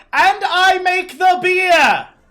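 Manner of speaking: very high, very slow, drawn-out loud holler. Voicing a character who hollers down after descending adventurers: NPC hollering from upstairs. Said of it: "you hear her holler from the top".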